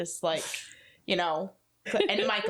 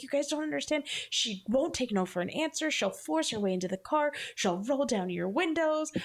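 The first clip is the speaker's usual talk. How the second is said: imitating a worked-up friend's warning, higher at the start; near hysteria; 5 semitones higher than usual. Superstitious friend warns the others about the ghost girl, mock hysteria. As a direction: retell his panicked pleading, mildly acted. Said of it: "almost to the point of hysteria".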